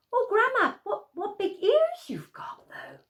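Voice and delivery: put-on high, half-whispered child's voice; hushed, a little nervous; wary little girl. Girl whispers to the disguised wolf about his ears.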